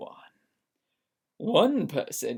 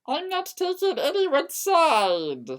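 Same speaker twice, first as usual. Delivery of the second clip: much higher defensive yell; yelling back; 11 semitones higher, 4 dB louder than usual. A narrator's reading. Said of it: "I yelled back".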